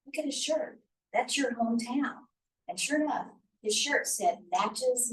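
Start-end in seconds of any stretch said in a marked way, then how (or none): 0.0-2.2 retold amazed remark. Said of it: "Doctor G goes".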